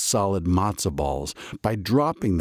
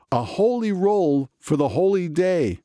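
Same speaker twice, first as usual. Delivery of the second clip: Rabbi Kibitz voice; 10 semitones higher than usual. A narrator's reading. Rabbi Kibitz to the town, pleased with his pun. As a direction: savour the pun.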